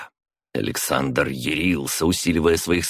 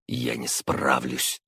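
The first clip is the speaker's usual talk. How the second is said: inner thought; 4 semitones lower, 6 dB quieter, slower than usual. A narrator's reading. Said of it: "подумал шестой царевич".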